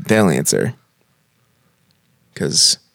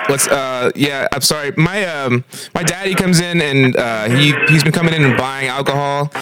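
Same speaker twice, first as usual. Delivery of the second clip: put-on small child voice; 3 semitones higher than usual. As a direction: sound like a nervous young kid. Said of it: "That's your best small child voice".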